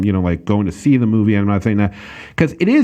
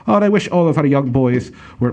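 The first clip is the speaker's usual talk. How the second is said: hammed-up mock German accent; a clumsy stab at a German officer voice; bad German accent. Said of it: "that's a horrible German accent".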